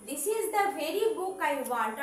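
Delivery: this is the very book I want, slowly and evenly; teacher dictating the example; slow dictation. Shown as a demonstration. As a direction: read it out slowly for copying. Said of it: "slow dictation".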